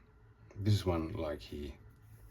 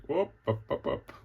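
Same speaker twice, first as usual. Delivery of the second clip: goofy whoop; 10 semitones higher, 5 dB louder than usual. Retold or imitated. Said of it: "It's like".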